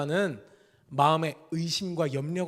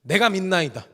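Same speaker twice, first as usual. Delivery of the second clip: cried out; 2 semitones higher, 5 dB louder than usual. Retold or imitated. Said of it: "더 소리를 지르면서".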